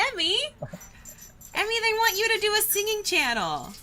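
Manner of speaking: high, loud hollered announcement; excited call-out. Real, not acted. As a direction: call Emmy over with big excitement. Calling out excitedly to Emmy.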